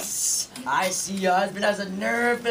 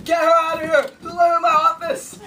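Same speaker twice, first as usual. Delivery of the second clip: loud, higher angry demand; angry order; 7 semitones higher, 7 dB louder than usual. Acted. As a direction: bark at the clerk to remove her. Official orders her removed.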